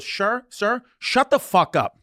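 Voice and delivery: mock firm flight attendant, drawn out; retold angry snap. Flight attendant snapping at a yelling passenger, mock fed-up. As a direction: act out her finally losing patience. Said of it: "he's still yelling, and she goes".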